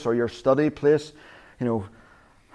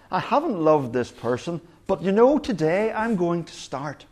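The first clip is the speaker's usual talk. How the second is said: higher, lightly mocking voice; mock God; 6 semitones higher than usual. Mock voice of a God who only starts loving today. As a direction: play a God who'd just now decide to love.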